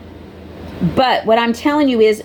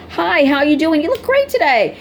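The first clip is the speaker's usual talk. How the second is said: higher, bright sing-song customer greeting; imitating her own chirpy register greeting, pitched up; cheerful cashier greeting; 5 semitones higher than usual.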